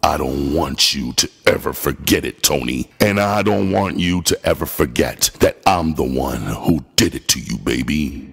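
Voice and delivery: low, harsh and cold. Acted. Narrator harshly taunting Tony before slamming the phone, low. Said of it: "I said harshly".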